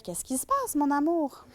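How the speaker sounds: a hint of a falsely sweet girlish voice; silly little high voice. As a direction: lightly imitate a naive woman asking sweetly. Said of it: "Avec une petite voix aiguë, comme si elle était niaiseuse".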